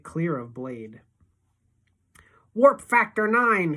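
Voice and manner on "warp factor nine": loud, higher, slow space-captain shout. A narrator's reading. Boy riding his friend like a steed, urging speed: loud slow captain's shout. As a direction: call it out like a starship captain. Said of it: "Freak is shouting".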